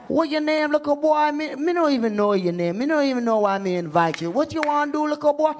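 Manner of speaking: high, challenging Jamaican patois; scornful imitation Jamaican host; Jamaican accent. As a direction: size up a newcomer in a Jamaican accent. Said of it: "messing with some Jamaicans".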